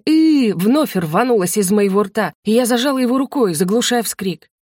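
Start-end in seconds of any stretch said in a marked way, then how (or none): 0.1-0.5 short high startled "ы"; frightened yelp. A narrator's reading. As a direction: let a fright slip out, high. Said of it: "Испуганное". (испуганный короткий вскрик)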